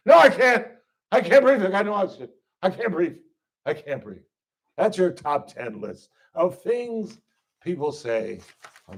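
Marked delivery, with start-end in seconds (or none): 0.1-4.2 fading fake gasp. Arrestee insisting she can't breathe, fading out. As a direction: wheeze it out until it dies away.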